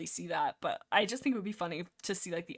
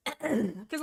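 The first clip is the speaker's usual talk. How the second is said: husky voice from a throat tickle; frog in throat; 2 semitones higher than usual. Real, not acted. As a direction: talk through a throat catch. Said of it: "Little frog in my throat".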